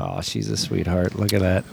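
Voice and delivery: soft, low cooing. Real, not acted. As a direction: coo over a sweet picture. Cooing over photo of a dog.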